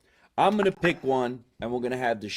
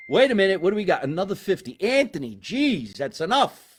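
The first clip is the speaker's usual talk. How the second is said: higher, louder mock protest; mock exasperation; 6 semitones higher, 4 dB louder than usual. Host stops short at Anthony's gift, mock exasperation. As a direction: break off into animated mock disbelief.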